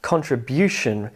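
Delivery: contribution with the weight on BU; contribution, third syllable biggest and falling away; stress on third syllable. Shown as a demonstration. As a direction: lean on the BU in contribution. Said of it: "See the emphasis on the third syllable".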